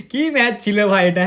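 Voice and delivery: laughing through the words; amused disbelief. Real, not acted. Host crowing to viewers over a lopsided win, laughing. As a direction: let a laugh break into the exclamation.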